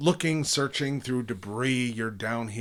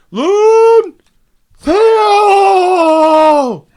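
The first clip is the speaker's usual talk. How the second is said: very high, booming, very loud bellowing shout; 19 dB louder than usual. The game master voices a sudden voice the players hear, loud booming voice. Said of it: "Just loud, booming voice".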